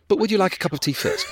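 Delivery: high, sweetly polite offer; chirpy, friendly tea-time politeness as a joke; chipper Simon. Acted. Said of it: "he's really chipper and friendly".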